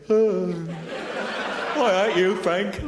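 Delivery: dad in a sitcom voice, mock exasperated. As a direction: ham it up like a British sitcom dad.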